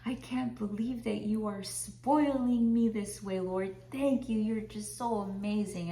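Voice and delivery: high, tearful gushing thanks; overflowing with grateful joy; grateful happy tears. Retold or imitated. Preacher reliving thanking the Lord, tearful high gushing. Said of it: "Sometimes I'm crying in gratitude".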